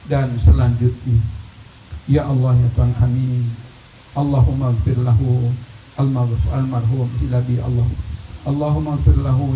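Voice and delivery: earnest imploring prayer, each plea ending in a dropped ya Allah; leading a prayer. Acted. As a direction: plead humbly for the community, voice falling at every ya Allah. Leads a long communal prayer.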